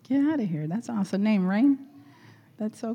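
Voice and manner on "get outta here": usual speaking voice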